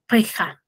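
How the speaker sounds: teacher showing how people in Arequipa say the word for head; Arequipa pronunciation. Shown as a demonstration. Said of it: "ellos tienen una cierta entonación".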